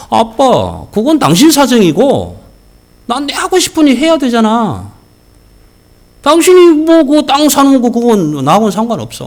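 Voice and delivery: put-on defiant child. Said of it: "그러니까".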